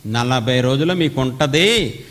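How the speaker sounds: prophet's stern warning to a city. Retold or imitated. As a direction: warn the city bluntly. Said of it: "స్లోగా చెప్పారా?".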